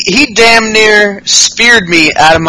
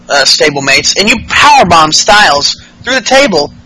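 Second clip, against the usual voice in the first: mock rant; 6 semitones higher than usual. Ambrose voiced yelling at Shane.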